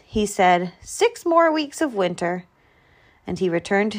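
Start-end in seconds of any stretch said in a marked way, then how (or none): 0.8-2.5 disappointed. A narrator's reading. Groundhog accepts more winter.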